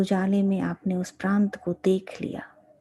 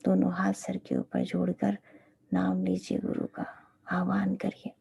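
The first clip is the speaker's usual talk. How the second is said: guided meditation; 3 dB quieter than usual. Real, not acted. Teacher leading disciples to meditate on the guru, guided meditation. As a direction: guide them gently, phrase by phrase.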